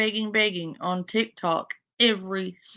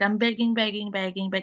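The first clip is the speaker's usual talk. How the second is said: ordinary talk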